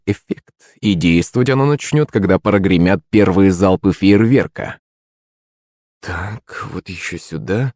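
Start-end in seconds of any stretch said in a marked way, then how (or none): 6.0-7.7 muttering under breath. A narrator's reading. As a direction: mumble it under your breath, absorbed in work. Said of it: "пробормотал под нос Сатоши".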